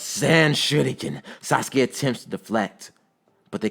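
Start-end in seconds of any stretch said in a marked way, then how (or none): 0.0-1.2 high, drawn-out attack call; raised battle cry; yelled attack. A narrator's reading. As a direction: call out the attack name, stretched. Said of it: "as he yells".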